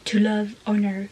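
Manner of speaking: slow, dramatic blurb reading in accented English; lecture dramatique en anglais. Shown as a demonstration. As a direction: read it like a book trailer, drawn out. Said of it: "mon super accent anglais". (lecture théâtrale, accent français en anglais)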